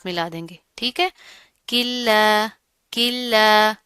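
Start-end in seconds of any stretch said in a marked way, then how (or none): 1.7-3.8 "किल्ला" with no n, straight into a doubled l; chanted "किल्ला", firm double l; idgham. Shown as a demonstration. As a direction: merge into the held l of "किल्ला". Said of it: "यहाँ पर हम इदगाम करेंगे".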